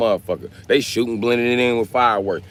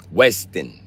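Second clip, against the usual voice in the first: "Weston" in a thick Chicago accent. Shown as a demonstration. Streamer catches himself saying Weston the Chicago way. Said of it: "that's that Chicago accent".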